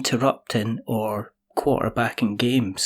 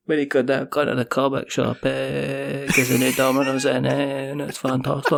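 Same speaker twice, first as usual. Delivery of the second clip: put-on light Scottish accent. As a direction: keep the Scottish lilt going. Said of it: "just like that".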